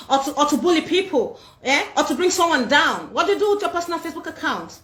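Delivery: teasing mock posh American voice; posh Tush English. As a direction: put on a fake fancy foreign accent. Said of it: "let me switch to speaking Tush English".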